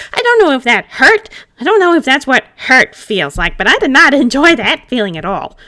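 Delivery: high, loud upset rant; agitated complaint. Acted. Pumpkin spirit complaining to Gil about getting wet, agitated. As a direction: complain all in a rush.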